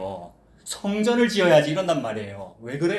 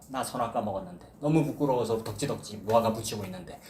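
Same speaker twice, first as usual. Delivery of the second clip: 부끄러워하는 목소리; 7 semitones lower, 6 dB quieter than usual. Acted. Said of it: "부끄러움을 없게 하시려고".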